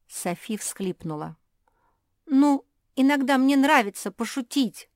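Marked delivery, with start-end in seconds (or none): 2.3-4.9 high, loud whiny excuse. A narrator's reading. Caught traitor Sophie whines her excuse, high and loud.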